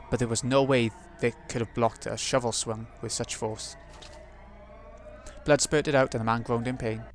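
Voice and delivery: story narration. A narrator's reading. Narrator reads game text.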